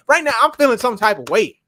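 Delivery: loud, high, worked-up declaration; emotional. Real, not acted. Fan venting after the Ravens lose, loud and high. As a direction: let the frustration spill out loud. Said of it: "I'm very emotional right now".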